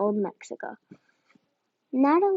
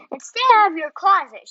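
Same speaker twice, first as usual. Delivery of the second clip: an unvoiced, louder whispered order; whispered warning; 5 semitones higher, 6 dB louder than usual. A narrator's reading. Mother hissing a last order at her son's door, whispered. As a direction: hiss the parting order at the closing door. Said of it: "she added".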